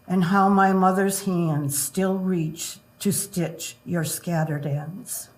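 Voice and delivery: slow, tender poem recital; poetry reading. Acted. Reads poem for granddaughter.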